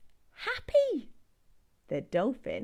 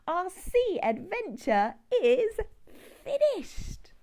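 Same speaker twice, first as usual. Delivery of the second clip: hushed whisper; 7 semitones higher than usual. Acted. Ending the story for children in a whisper. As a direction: whisper the end of the adventure.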